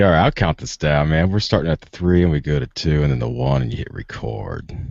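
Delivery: crooning count-in that melts into a rumble; deep soul-singer voice. Pretend. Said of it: a practice run of a deep soul-singer voice.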